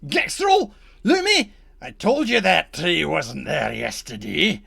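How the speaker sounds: high, loud yelled names then complaint; redcap shout. Acted. Redcap calling to his companions about the tree, shouted. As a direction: call out to companions, annoyed. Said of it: "and he goes".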